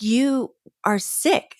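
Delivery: slow, drawn-out knowing accusation; mock accusation. Young reader calling out her teacher's fake illness, slow and knowing. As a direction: stretch each word, calling out a fib.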